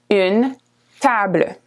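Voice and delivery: une table with a quick final E; French pronunciation. Shown as a demonstration. Teacher modelling une table, French pronunciation. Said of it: "The E at the end is fast again".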